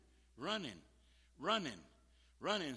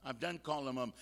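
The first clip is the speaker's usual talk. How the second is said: reluctant objection; 3 dB louder, faster than usual. Acted. Voices listener's reluctant objection.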